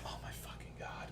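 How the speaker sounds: breathless whisper of disbelief; whispered despair. Retold or imitated. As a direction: whisper it under your breath. Despair at wrong order.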